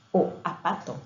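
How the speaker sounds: apato, with the z of zapato left out; child's mispronunciation. Shown as a demonstration. Teacher showing a child's omission, apato without z. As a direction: say apato like a child missing the first sound. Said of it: "el niño quiere decir zapato".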